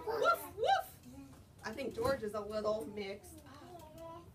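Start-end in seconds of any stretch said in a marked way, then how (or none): 0.1-0.9 high, loud playful woof woof with a laugh; dog barks. Shown as a demonstration. Teacher shows the class what dogs say, playfully. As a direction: bark it out for the kids. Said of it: "What do dogs say?".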